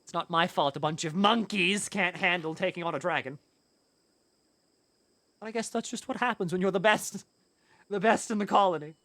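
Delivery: a light hint of a smug Frieza villain voice; villain gloat. Gloating over the dead monkeys as a lightly voiced smug villain. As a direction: gloat like a cartoon tyrant, only half in character. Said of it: "You're going full Frieza?".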